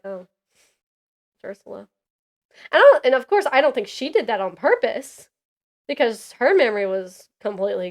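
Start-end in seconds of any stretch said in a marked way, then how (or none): 0.0-1.9 quiet realization. Retold or imitated. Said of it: "and I was like".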